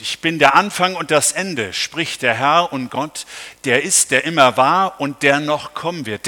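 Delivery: solemn scripture reading. Acted. Preacher reading Revelation to the congregation, solemn proclamation. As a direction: proclaim the verses with weight.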